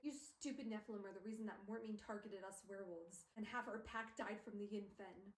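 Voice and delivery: lightly put-on New York accent; mock New York accent; bad New York accent. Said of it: "they have a bad New York accent".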